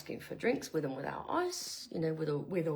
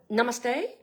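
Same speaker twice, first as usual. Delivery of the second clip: Australian accent; 5 semitones higher, 4 dB louder than usual. Shown as a demonstration. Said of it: "all in an Australian accent".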